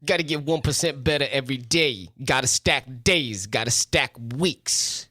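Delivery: measured mock locker-room pep talk, slightly deepened; Jim Shaw. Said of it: "I gotta work on my coach, Jim Shaw".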